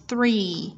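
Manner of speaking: THREE starting on an airy TH; voiceless TH. Shown as a demonstration. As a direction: begin "three" with an unvoiced TH. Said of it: "T H không tỏ".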